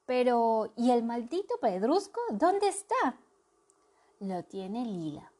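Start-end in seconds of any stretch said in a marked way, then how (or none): 0.1-3.2 loud and high, impatient; loud demand. Acted. A character demanding the lost stone, loud and impatient. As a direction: snap the question out.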